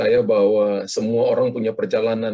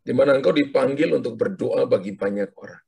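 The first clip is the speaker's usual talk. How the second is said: prophetic declaration. Acted. Prophetic word over caller.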